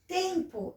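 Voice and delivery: "Tempo" slowly, stretching TEM; "TEM-po", drawn out; strong syllable shown. Shown as a demonstration. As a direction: sound out "Tempo" with weight on TEM. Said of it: "é o tem".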